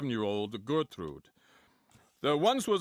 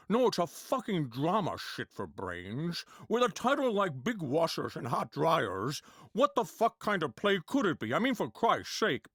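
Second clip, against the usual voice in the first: Sean Connery impression; 3 semitones higher than usual. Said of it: "Sean Connery".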